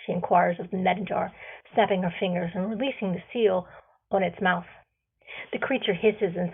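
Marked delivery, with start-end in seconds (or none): none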